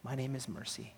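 very soft, gentle reply; tender, soothing. Acted. Stranger from the back wall revealing himself, tender soothing voice. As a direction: answer softly, with quiet care. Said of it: "He replied with the most tender, caring, even soothing voice".

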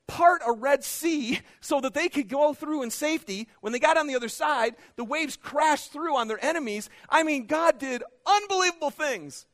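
loud, soaring sermon delivery; loud and high preacher voice; full-force preaching. Acted. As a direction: build the miracle story big.

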